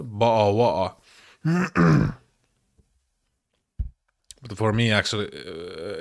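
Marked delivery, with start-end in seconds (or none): 0.0-1.0 British glottal "bo'o wo'o"; mock British accent. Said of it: "you are saying".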